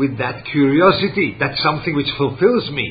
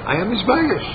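emphatic preaching; 10 semitones higher than usual. Acted. Preacher's emphatic self-declaration.

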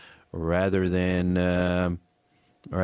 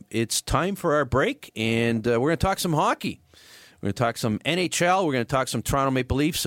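upbeat radio segue; 5 semitones higher than usual. Real, not acted. Host tosses to break.

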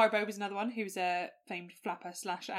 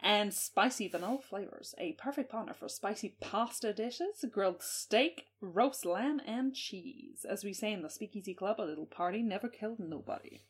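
1930s voice. Acted. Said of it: "nineteen thirties voice".

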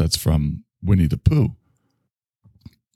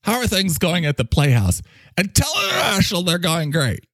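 high pompous boss voice; 9 semitones higher than usual. Acted. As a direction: play a self-important leader delivering news. Boss character orders relay.

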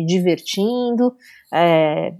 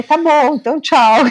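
higher, louder curt goodbye; miffed goodbye; 8 semitones higher, 6 dB louder than usual. Retold or imitated. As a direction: hang up in a mock huff. Mãe ofendida desliga. (mãe ofendida desligando, mais alto e agudo)

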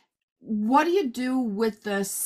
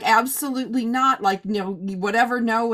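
louder, emphatic mock refusal; firm refusal; 4 dB louder than usual. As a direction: shut the idea down flatly. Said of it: "I'm like".

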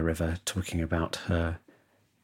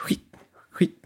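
tawny owl call. Retold or imitated. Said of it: "of a tawny owl".

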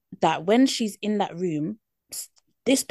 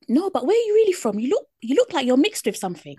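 mock nosy question; 5 semitones higher, faster than usual. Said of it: "if you said".

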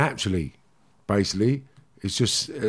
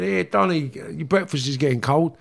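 higher, casual call from the next room; brother calling out; 4 semitones higher than usual. Retold or imitated. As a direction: call him in for breakfast, offhand. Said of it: "his brother's called him and said".

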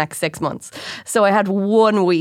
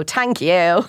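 put-on Dublin accent. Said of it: "such a Dublin accent".

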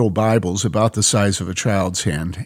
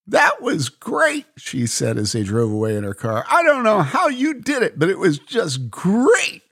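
Mary, delighted; 9 semitones higher than usual. Acted. Mary praises the Israeli in the car, delighted. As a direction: savour the wonder.

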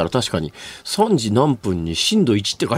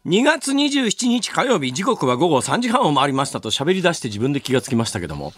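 stuffy nose, hay fever voice; blocked-up nasal tone; 2 semitones higher than usual. Real, not acted. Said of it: "ちょっと鼻声ですし、". (鼻声)

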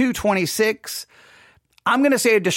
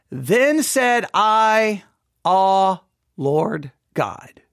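dramatic scripture reading; much slower than usual. Acted. Teacher reads Jeremiah's lament to class, dramatic slow reading. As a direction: read the verse like a prophet's lament.

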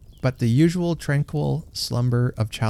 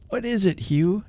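put-on little girl voice; 9 semitones higher than usual. A narrator's reading. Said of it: "she said".

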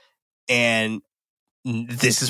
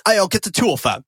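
higher-pitched mock gangster order; imitating film character; 6 semitones higher than usual. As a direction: imitate him calling for the tool, pitched up. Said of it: "He was like, he's like".

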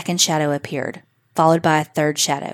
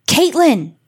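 higher and louder scream of a name; horrified cry; 9 semitones higher, 4 dB louder than usual. A narrator's reading. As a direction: cry out her name in horror. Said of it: "she cried out in horror".

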